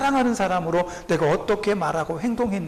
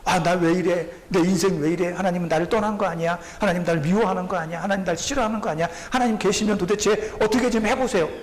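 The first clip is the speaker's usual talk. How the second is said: careless complaint. Retold or imitated. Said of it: "이런 두려움 없이 하는 이런 말들을".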